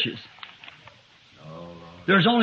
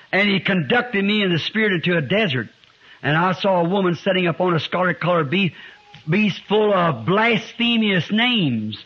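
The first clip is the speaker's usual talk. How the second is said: emphatic scripture reading. Real, not acted. Reads scripture aloud.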